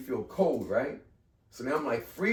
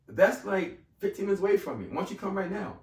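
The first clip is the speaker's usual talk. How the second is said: high, louder, insistent voice; imitating the principal; 9 semitones higher, 4 dB louder than usual. Principal urging the candidate to come now, high and insistent. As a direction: push him to come in now, pitched up. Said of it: "She goes".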